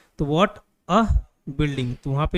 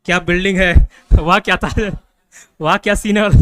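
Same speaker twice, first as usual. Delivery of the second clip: louder, admiring wah kya building; amazed exclamation; 2 semitones lower, 4 dB louder than usual. Shown as a demonstration. Teacher demonstrating an exclamation to students, amazed. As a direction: exclaim in wonder at a sight. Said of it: "जैसे बोलते हैं ना".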